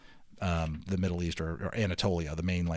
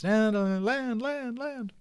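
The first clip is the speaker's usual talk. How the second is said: rising higher with each land, fading away; excited cheer; 4 dB louder, much slower than usual. Acted. Families on the balloon platform spotting land, rising excited cheer.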